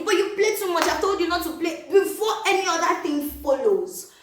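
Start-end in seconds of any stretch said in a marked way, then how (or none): 0.0-1.9 mock scolding parent. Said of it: "you go and say".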